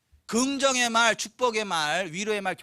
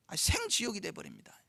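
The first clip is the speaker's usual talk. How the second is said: 생지옥이 again but much softer, falling; quieter repeat; 8 dB quieter than usual. Shown as a demonstration.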